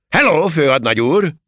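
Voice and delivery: high, loud hail; high-pitched carrying call. A narrator's reading. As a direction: hail a passing officer breezily. Recruit calling to passing officer.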